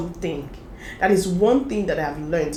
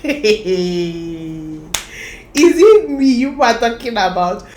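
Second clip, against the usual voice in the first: incredulous; 2 semitones higher, 7 dB louder, much slower than usual. Retold or imitated. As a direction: ask it in amused disbelief. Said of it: "And I'm like".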